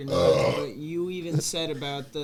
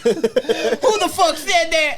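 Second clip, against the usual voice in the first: mock sergeant yell; 10 semitones higher, 8 dB louder, slower than usual. Friend repeats the sergeant line.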